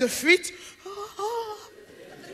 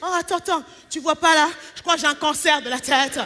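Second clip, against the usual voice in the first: whiny man. Retold or imitated. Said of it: "un mec, il a un petit bobo".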